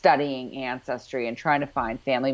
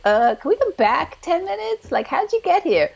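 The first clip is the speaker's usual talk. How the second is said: mock baffled question; 13 semitones higher than usual. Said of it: "I was like".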